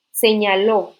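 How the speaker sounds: señaló said loudly, stressed on the final ló; stress on final syllable. Shown as a demonstration. Teacher pointing out an accented past verb, señaló stressed on its final ló. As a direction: punch out señaló toward its last syllable. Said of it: "lleva acento en la última sílaba".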